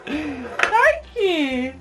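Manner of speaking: high, laughing gushing thanks. Real, not acted. Baby gives her something.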